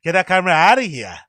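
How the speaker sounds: lightly mimicked Canadian-style accent; imitated Canadian-ish accent. Puzzling over where they're from, mimicked Canadian-ish accent. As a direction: try on a Canadian-sounding accent. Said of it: "it's like Canadianish".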